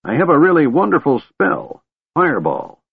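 put-on high, eager old man; shout. A narrator's reading. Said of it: "the old man shouted".

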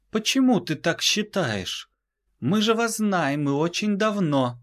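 высокий, чужой, удивлённый голос; спроси с недоумением, высоко; высокий голос пришелицы. Acted. Пришелица спрашивает Дюка. (высокий голос инопланетянки)

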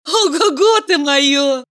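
slow, laughing exclamation. A narrator's reading. Valeria laughs at Mikhail's boast, laughing. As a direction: laugh it out teasingly. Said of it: "рассмеялась Валерия".

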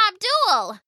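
high, alarmed call of his name; pirate woman's urgent cry. A narrator's reading. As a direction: call out to rouse him. Hana rushes in as boat sinks.

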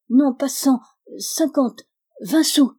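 halting, high-pitched haggling; stammering. A narrator's reading. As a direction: lurch from one sum to the next, pausing between. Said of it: "Elle bégayait".

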